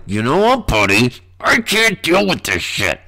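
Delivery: high, strained mock-nasal voice; hammed-up congested complaint; exasperated comic reply. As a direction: put on a high, fed-up voice. Acts own exasperated reply to allergies.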